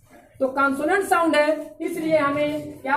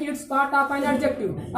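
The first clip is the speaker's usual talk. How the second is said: laughing; 3 dB quieter, much slower than usual. Real, not acted. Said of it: "definition said with a laugh".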